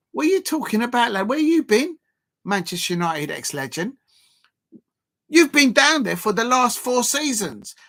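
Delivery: high, incredulous comeback; indignant retort. Acted. Acted retort to the pundit.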